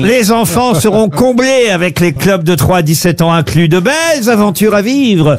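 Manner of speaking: brisk radio sponsor read; upbeat radio ad read over music. Acted. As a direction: sell the holiday club like a live ad. Ad read continues.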